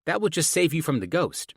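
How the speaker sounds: put-on high-pitched girl voice; young daughter. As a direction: answer Dad in a child's high voice.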